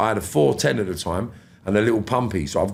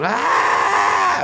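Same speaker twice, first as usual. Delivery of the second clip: high mock shriek of shock; retold scream; 8 semitones higher, 3 dB louder than usual. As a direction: gasp it high like she saw the wound. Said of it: "she's just gone".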